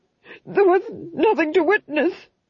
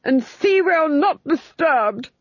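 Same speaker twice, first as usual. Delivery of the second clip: high, drawn-out hiss of command; hissed order; 9 semitones higher, 4 dB louder than usual. A narrator's reading. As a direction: hiss it slowly as the angry Duke. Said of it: "hissed the Duke".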